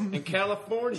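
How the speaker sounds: amused laughing talk. Real, not acted. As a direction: laugh while describing the map. Laughing about map.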